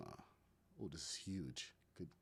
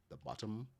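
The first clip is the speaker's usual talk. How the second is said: Caribbean accent; 5 semitones higher than usual. Real, not acted. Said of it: "My Caribbean accent is coming out there".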